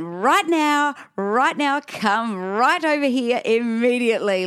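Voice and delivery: high, slowed, insistent order; urgent controlled command. Retold or imitated. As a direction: order him over without screaming. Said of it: "like this".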